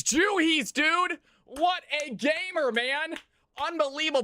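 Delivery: high, hyped-up praise for a great play; excited hype. Real, not acted. Streamer cheering a player's great play, excited. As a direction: cheer him on like a fan.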